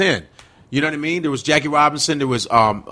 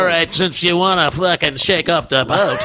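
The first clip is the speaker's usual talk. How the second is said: lightly voiced corporate white guy; a touch of stuffy white executive; 2 semitones higher than usual. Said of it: "sounds like a corporate white voice".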